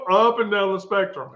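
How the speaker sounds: repeating it through a laugh. Real, not acted. Repeating the punchline to friends, laughing. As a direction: laugh as you say it again.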